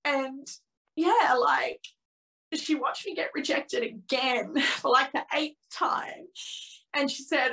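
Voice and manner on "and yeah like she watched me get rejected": real emotion. Real, not acted. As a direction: voice starting to catch, understated. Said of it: "I'm getting quite emotional".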